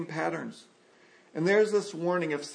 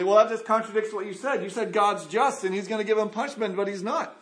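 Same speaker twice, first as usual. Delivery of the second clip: quick, higher-pitched protest; acted-out pushback, rushed and raised; imagined objection; 4 semitones higher, faster than usual. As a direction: rattle it off like a sceptical objector. Voicing an imagined listener's objection.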